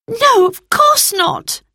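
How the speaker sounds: high, loud, slow protest; crying out. Acted. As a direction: cry it out, shocked at the idea. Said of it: "cried Roberta".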